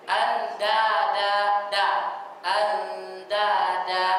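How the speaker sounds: Anda da with the Indonesian d, sung a little; demo of Indonesian d. Shown as a demonstration. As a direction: chant Anda da with the local d sound. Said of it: "seperti ada huruf da".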